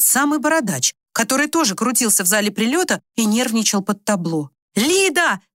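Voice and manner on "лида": high calling shout of her name. Acted. Leonid calling out to Lida across the hall, a shout. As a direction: call her across the crowd. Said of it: "крикнул Леонид Сергеевич".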